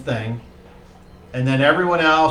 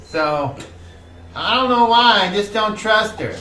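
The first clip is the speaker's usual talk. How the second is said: put-on raised, rambling young guy voice; high chatty NPC; 3 semitones higher than usual. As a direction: talk it up high and nervous. GM voices NPC Tamark talking.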